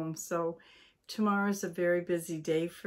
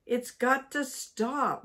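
firm cross wife; 5 semitones higher, 4 dB louder, slower than usual. Acted. Cross wife lays down law.

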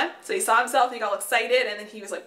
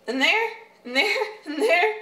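laughing; 8 semitones higher, 3 dB louder than usual. Real, not acted. Pointing out plant roots happily.

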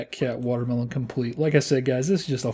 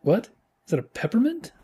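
rising disbelief; surprised; 3 semitones higher than usual. Real, not acted. Surprised at new piece.

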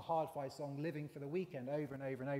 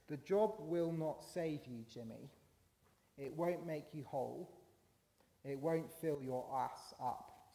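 slow, lightly voiced weary cop; measured advice with a hint of world-weariness; world-weary older cop; slower than usual. Older cop advising his younger colleague, lightly world-weary. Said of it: "the world-weary older cop".

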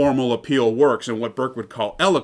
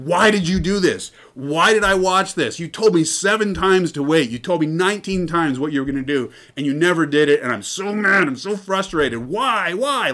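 mock angry commenter; 5 semitones higher than usual. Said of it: "everyone is so angry with the creator".

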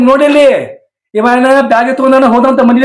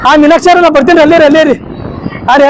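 eager higher-pitched call; 3 semitones higher, faster than usual. Acted. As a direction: call out to her that you're coming. Calling after Meenakshi.

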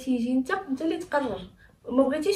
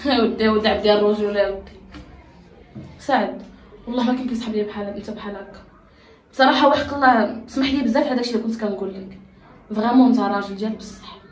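loud apology; 8 dB louder than usual. Acted.

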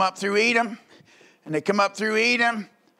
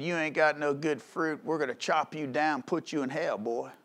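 threatening attitude; 4 semitones lower, 7 dB quieter than usual. Retold or imitated. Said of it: "What an attitude".

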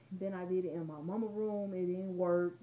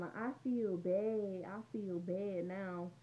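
slow mock remorse; much slower than usual. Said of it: "she said".

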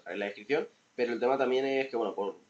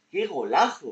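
higher, louder burst; excited; 8 semitones higher, 8 dB louder, slower than usual. Real, not acted. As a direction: shout the goal with joy. Goal scored in highlights.

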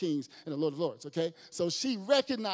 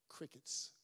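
breathy whisper of crickets; hushed punchline; 3 semitones lower, 14 dB quieter than usual. Acted. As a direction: drop to a whisper for the silence.

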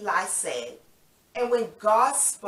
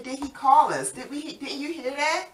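puzzled Samuel; 6 semitones higher than usual. Acted. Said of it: "Let's go to Eli and say".

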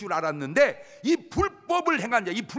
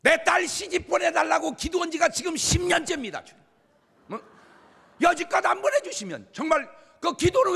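higher, louder demanding prayer; scolding prayer; 8 semitones higher, 4 dB louder than usual. Retold or imitated. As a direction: scold God like a master. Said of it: "주님을 혼내는 건지". (주님을 혼내듯 높고 큰 소리로 따지는 기도)

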